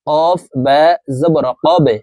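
echoing release of the ba in "কবে"; qalqalah bounce. Shown as a demonstration. Teacher demonstrates the qalqalah letter to viewers, bouncing ba in "কবে". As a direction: push downward and bounce off the ba of "কবে". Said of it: "ধাক্কা দিয়ে উচ্চারণ করতে হবে".

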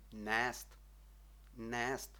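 "нест" with the E drawn out, neest; long E. Shown as a demonstration. Teacher modelling a Czech long vowel, drawn-out E. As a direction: stretch the vowel in "нест" a little. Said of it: "Мусимо трошки потягнути".

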